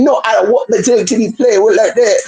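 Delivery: put-on proper, French-like accent. Lady refusing to let her dog be played with, French-like accent. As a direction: lightly mimic the lady's odd accent. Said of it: "a little more proper with it".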